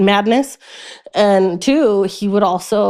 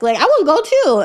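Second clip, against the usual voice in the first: mock toddler whine; 8 semitones higher than usual. Herself as toddler.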